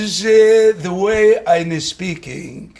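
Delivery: relaxed, neutral English accent; easygoing neutral accent; laid-back neutral accent. Shown as a demonstration. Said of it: "very laid back and it's a certain neutral".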